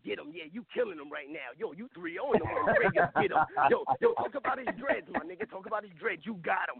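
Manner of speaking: mock conspiratorial goading, kept low; devil on the shoulder. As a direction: egg him on softly, like a little devil in his ear. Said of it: "that's the devil on Omega showing like".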